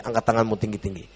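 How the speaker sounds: ordinary talk, nothing marked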